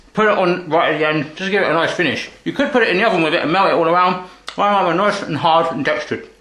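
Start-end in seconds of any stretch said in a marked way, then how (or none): 2.4-6.3 mouth full. Real, not acted. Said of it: "I shouldn't talk with my mouth full".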